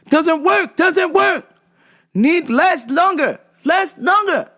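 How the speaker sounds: a mock desperate customer begging for a stronger cream; high pleading customer. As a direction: squeak out the demand like a desperate, out-of-it customer. Customer voiced again.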